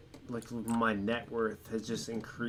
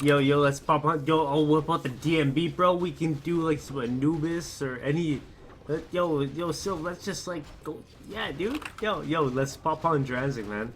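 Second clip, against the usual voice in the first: excited; 5 semitones higher, 6 dB louder than usual. Real, not acted. Hyped about joining a match.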